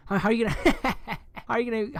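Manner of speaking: cracking up mid-sentence; laughing. Real, not acted. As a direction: break into laughter at your own slip. Breaks up at own joke.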